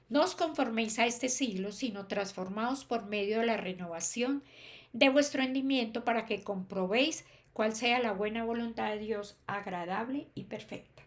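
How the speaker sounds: emphatic verse reading, easing off at the end; scripture reading. Acted. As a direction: read the verse out to a congregation. Reads a Bible verse aloud. (lectura bíblica enfática)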